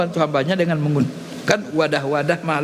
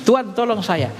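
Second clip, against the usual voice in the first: pleading call; 4 semitones higher, slower than usual. Shown as a demonstration. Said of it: "panggil nama guru kita".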